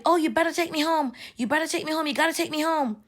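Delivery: high-pitched mock yell, no real volume. Lady demands a ride home, mild mock yell. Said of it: "she was yelling".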